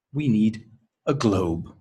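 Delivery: globe falls as the last item; falling list intonation. Shown as a demonstration. Teacher modelling a one-item list, falling on globe. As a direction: let "globe" drop to a finish. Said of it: "intonation goes down".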